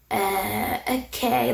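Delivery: hesitant, drawn-out imitation of discomfort; mock uneasy hesitation; awkward bystander. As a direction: play an official unsure what to say. Imitates awkward official sitting there.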